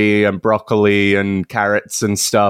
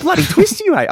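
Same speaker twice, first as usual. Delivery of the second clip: put-on Australian accent; faster than usual. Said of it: "sounding like an Australian person doing an Australian accent".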